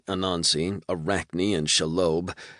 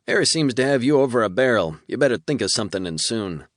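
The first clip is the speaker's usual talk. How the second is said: demon voice; 5 semitones higher, 5 dB louder than usual. A narrator's reading. Demon warns.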